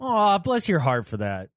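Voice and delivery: mock-sweet sympathy, slightly understated; passive-aggressive. Shown as a demonstration. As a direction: show fake sympathy you don't mean. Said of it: "see, that's passive aggressive".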